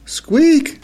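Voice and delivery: very high, piercing squeak on one held note; imitated squeak. A narrator's reading. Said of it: "a long, loud squeak".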